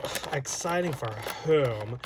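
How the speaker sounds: slow, groaning sarcastic retort; eye-rolling sarcasm. Retold or imitated. Retorting to a corporate announcement with slow sarcasm. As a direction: drag it out as if utterly unimpressed. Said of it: "I always roll my eyes and go".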